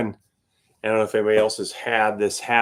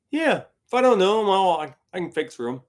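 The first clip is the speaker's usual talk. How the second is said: much higher, breezy boast; cocky Billy; 8 semitones higher than usual. Retold or imitated. Billy reassuring the band, breezy and much higher. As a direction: toss it off easily. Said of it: "Billy answering the band".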